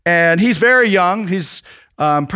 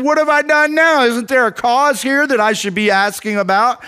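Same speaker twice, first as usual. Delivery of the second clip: higher-pitched pleading comeback; mildly acted, raised-pitch objection; indignant protest; 4 semitones higher than usual. David answers his older brother back, indignant protest.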